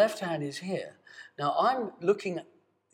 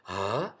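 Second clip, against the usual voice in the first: breathy ah; 7 semitones lower than usual. Shown as a demonstration. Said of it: "My breath comes first".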